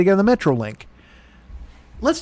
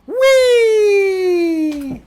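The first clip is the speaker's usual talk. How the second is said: put-on gleeful kid voice; 9 semitones higher, much slower than usual. Mocking friend's texts as a gleeful kid, high squealing. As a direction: play a giddy kid running loose.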